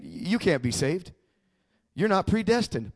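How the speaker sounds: low, hushed voice of the accuser; accusing inner voice. Retold or imitated. Inner voice telling a new believer he can't be saved, low accusing murmur. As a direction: quietly plant the doubt, voicing the accuser. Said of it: "the voice came to me".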